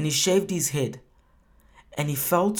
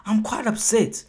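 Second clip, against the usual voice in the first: higher, pleading upset tone to God; upset complaint; 6 semitones higher than usual. Retold or imitated. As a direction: let the hurt rise in the voice. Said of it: "He's saying".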